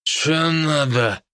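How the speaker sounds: very slow sleepy hungover mumble; a hungover man just woken; sleepy drunk. A narrator's reading. Hungover man opens gate to police, slow sleepy voice. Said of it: "Голос и лицо были сонными".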